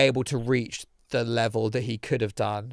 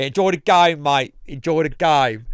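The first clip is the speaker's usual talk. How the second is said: mock cheery send-off; 3 semitones higher, 6 dB louder than usual. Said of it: "we go".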